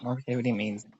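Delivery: muffled, bad mic sound; inside a fishbowl. Real, not acted. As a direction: voice through a muffled connection. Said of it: "You sound like a fishbowl".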